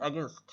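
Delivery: "against" with the weight on "gainst"; careful teaching model of "against"; pressure on syllable. Shown as a demonstration. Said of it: "একটা pressure দিচ্ছে আর কি".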